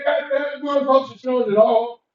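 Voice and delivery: fast, mock angry outburst. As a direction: rattle it off like a hammed-up scolding. A musician yells at him.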